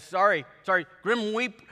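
hammed-up Reaper apologising; begging Grim Reaper. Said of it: "the Grim Reaper here is begging".

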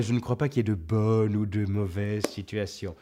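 grand, earnest philosophical monologue; Otis from Astérix. Pretend. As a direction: recite it like a solemn sage. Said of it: "Moi, je vous répondrais".

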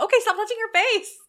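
loud, high alarmed yell at the screen; mock yell. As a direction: yell at the man to stop, half laughing. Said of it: "And I went".

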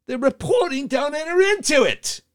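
high, held British sketch voice; lightly mock the pet-shop sketch; John Cleese impression. Host quoting Monty Python parrot sketch, mock Cleese voice. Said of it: "mischaracterize John Cleese from the old Parrot Shop routine".

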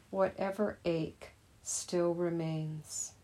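measured poem reading with pauses between lines. Acted. Teacher reading a poem about hands to meditators, measured recital. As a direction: read the poem out to meditators, line by line. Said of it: "as I read the poem".

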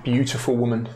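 measured, solemn scene-setting; unhurried storyteller voice; game master narration. A narrator's reading. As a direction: narrate a tragic farewell with long pauses.

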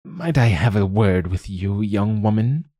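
lightly voiced croaky elderly woman; a hint of an old crone's croak. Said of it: "In a croaking, elderly voice".

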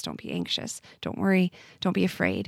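soft, near-whispered words; hushed verse quote. Retold or imitated. Quoting the verses to the host in a hushed voice. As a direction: breathe the verses almost without voice.

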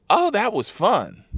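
high, gleeful retold reply; mock thrilled rider. Rider who slid into the Jeep, mock thrilled. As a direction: pitch it up like a delighted passenger.

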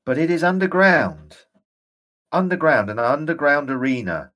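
a ghost seeing his dark prison again; ghostly general, rising urgency. Acted. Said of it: "and he shakes his head".

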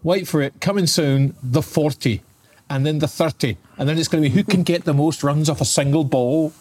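lively mock Scottish accent. To his co-host, griping about short cricket in Scottish accent. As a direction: rant it in a jokey Scottish accent. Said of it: "Why are you doing that in a Scottish accent?".

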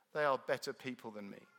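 ordinary talk

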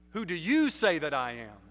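"you" given the weight in the question; stress on YOU. Shown as a demonstration. Jesus asking his disciples, "you" stressed. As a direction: ask it with "you" leaned on. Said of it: "you" is emphatic".

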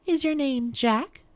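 high, slow questioning queen; queen guessing. A narrator's reading. Queen toys with the little man.

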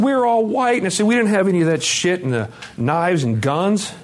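high-pitched indignant retort; indignant protest. Retold or imitated. Retold indignant protest to therapist.

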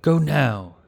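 high, loud, urgent order; shouted command. A narrator's reading. Dark knight sending companions off before charging, shouted.

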